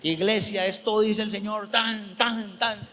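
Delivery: high, declamatory pulpit delivery; authoritative preaching. Retold or imitated. Pastor re-enacts his Sunday message to church, with authority. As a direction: proclaim it as a strong message. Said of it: "lo prediqué con la autoridad".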